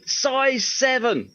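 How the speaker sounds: "Size seven" called high and very slow; drawn-out shouted order. Retold or imitated. Manager calling the boot size to Tracy, high and very slow. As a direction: stretch out "Size seven" like an order through the door.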